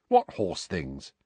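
puzzled, slow; puzzled Ron. Acted.

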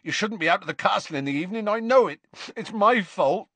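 a hint of a grieving giant; Hagrid voice. A narrator's reading. To Harry about the forest, lightly voiced Hagrid.

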